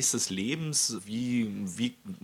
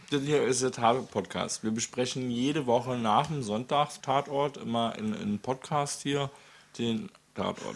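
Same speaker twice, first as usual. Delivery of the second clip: talking while eating bread; words round a bite of food; mouth full; 2 semitones higher than usual. Real, not acted. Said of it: "Mit vollem Mund ist es nicht üblich".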